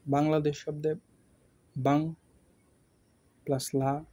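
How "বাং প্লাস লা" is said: বাং, then a pause, then লা; teacher pausing between syllables. Shown as a demonstration. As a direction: split বাংলাদেশ into beats with pauses. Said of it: "বাং, এরপর একটু থামা হচ্ছে লা".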